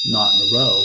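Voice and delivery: deadpan delivery of the joke; deadpan Stephen Wright. Retold or imitated. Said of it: "Always just the deadpan".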